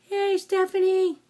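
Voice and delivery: high, loud happy call; excited shout-out. Real, not acted. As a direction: call out her name brightly. Greeting surgery sister by name.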